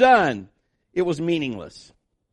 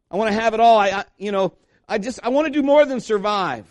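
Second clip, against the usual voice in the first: raised, yearning plea; earnest longing; 4 semitones higher, 4 dB louder than usual. Acted. Preacher voicing people who just want happiness, raised plea. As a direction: plead with a touch of desperation.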